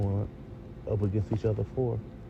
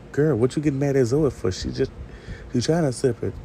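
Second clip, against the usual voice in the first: higher-pitched, lightly exasperated telling-off; mild mock scolding; 4 semitones higher than usual. Viewer takes Jazz to task for getting mad at Zoe, mild mock scolding. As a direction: call her out, a touch exasperated.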